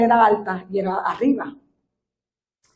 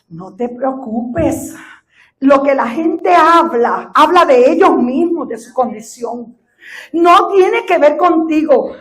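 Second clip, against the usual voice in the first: gentle reassurance; 3 semitones higher, 5 dB louder, slower than usual. Retold or imitated. Voicing the Spirit's gentle words.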